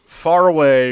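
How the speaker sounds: ordinary delivery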